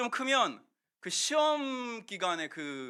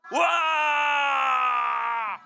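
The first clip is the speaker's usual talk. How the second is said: drawn-out loud high roar; long shout; 8 semitones higher, 10 dB louder, much slower than usual. Shown as a demonstration. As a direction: lead the crowd in a huge cheer. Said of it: "소리 한번 질러볼까요". (아이들과 함께 길게 외치는 함성)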